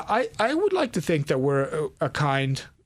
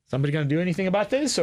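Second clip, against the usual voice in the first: exasperated aside; 3 semitones higher, much faster than usual. Retold or imitated. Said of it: "sitting in that corner going".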